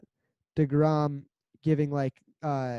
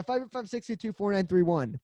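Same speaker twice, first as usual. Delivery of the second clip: higher, punchy radio call-in read; radio show announcer; 6 semitones higher, 3 dB louder than usual. Shown as a demonstration. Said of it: "say it like a radio show".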